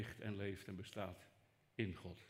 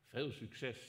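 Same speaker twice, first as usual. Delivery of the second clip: dry ironic well-wishing. Acted. God's ironic farewell, repeated.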